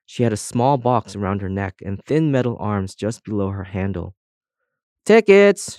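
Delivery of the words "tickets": higher, louder call; shout. A narrator's reading. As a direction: bark it out to the crowd. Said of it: "shouted the tin opener".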